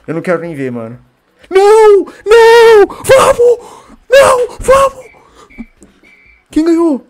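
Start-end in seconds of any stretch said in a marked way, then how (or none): 1.5-5.1 shrieking high and loud, desperate then ecstatic; frantic screaming. Real, not acted. Watching decisive match moment. 6.5-7.1 high, loud, breathless question; stunned question. Real, not acted. Confused after the final whistle.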